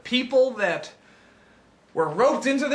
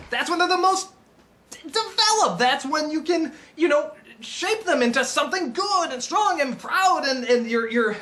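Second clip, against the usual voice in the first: ordinary talk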